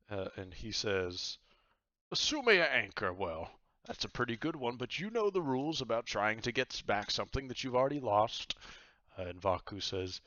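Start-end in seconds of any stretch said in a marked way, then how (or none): 2.1-8.6 high, loud jovial pirate captain. Acted. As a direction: boom it out like a cheery pirate host. Captain Myers voice.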